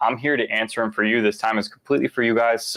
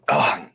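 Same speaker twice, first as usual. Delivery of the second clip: groan after coughing; 4 semitones lower than usual. Real, not acted. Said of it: "My eyes are watering".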